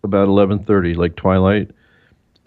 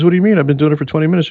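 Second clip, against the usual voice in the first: higher-pitched, mock-incredulous quote; retold puzzled protest; 7 semitones higher, much faster than usual. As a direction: imitate a baffled host protesting. Retold radio host puzzled by callers.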